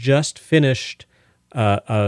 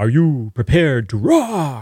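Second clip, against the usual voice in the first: eerie, spooky, very slow, drawn-out rock-style voice. Showing listeners how to yell the question: a little spooky. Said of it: "And make it a little spooky".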